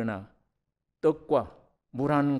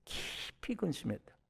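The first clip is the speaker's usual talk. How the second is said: 깊이 근심했다 said much softer, falling away; soft repeat; 3 semitones higher, 12 dB quieter than usual. Shown as a demonstration. Preacher quietly echoing Abraham's sorrow, hushed. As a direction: drop 근심했다 to a hushed fall. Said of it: "아브라함이 표현이에요".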